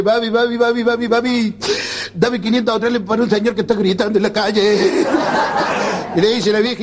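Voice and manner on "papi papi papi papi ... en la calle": put-on slightly higher pleading child; whining kid. Boy begging his mother for money, pleading. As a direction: beg like a crying little boy. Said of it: "le dice a la madre".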